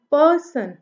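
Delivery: falling "पर्सन", first syllable emphasised; stress on first syllable. Shown as a demonstration. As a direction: press on पर, ease off सन in "पर्सन". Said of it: "हमने उसको जोर दे के बोला है".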